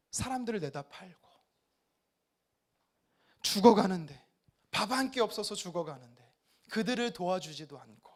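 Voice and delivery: halting lament to God; anguished outpouring. Acted. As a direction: lay the grievance out, mostly subdued. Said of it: "하나님 앞에 막 토로해야 돼요".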